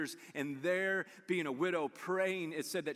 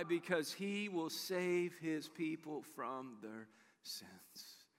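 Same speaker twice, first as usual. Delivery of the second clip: hushed angel; 5 dB quieter, much slower than usual. Acted.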